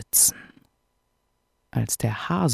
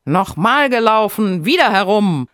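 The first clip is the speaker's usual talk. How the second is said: higher, louder call to race again; 7 semitones higher, 5 dB louder than usual. A narrator's reading. Hare calls for another run, loud. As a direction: demand a rematch, firm and loud. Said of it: "Er rief".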